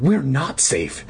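a mock frightened little-girl cry. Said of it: "she cried".

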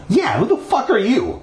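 high, sharp angry demand. Acted. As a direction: snap the question at him. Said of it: "she asked angrily".

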